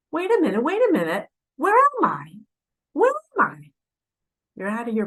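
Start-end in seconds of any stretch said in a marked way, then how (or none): 0.1-3.7 high, rising panic of a lost soul; disoriented. Acted. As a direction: ask it like you've just woken somewhere strange. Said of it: "you're disoriented".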